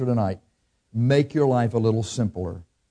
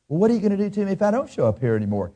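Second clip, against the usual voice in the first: higher, fast cocky employee; mock defiant challenge; 5 semitones higher, faster than usual. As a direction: toss back a cheeky dare.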